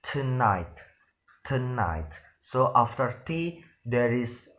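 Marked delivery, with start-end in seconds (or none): 0.0-2.2 tonight said as "tu-night" with a clear first vowel; full tonight. Shown as a demonstration. Teacher showing the original pronunciation, spelled out carefully. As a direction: say tonight slowly with every sound. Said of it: "we will pronounce it".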